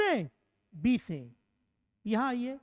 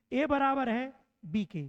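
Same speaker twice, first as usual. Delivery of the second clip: slow model reading of "ए बराबर है B के", each word clear; correct reading, slow. Shown as a demonstration. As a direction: read "ए बराबर है B के" deliberately, as a teacher models it. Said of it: "तो हम ए को पढ़ेंगे".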